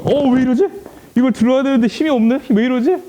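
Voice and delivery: like a strongman suddenly finding himself weak; bewildered Samson. Acted. Samson finding strength gone. (힘이 빠진 걸 깨닫고 당황한 높은 목소리)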